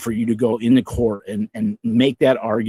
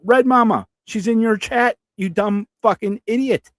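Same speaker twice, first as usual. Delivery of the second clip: much higher, exasperated outburst; incredulous rant; 10 semitones higher than usual. Real, not acted. Streamer calls out the ex in his chat, exasperated high outburst. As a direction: spit it out in disbelief. Angry callout of the ex.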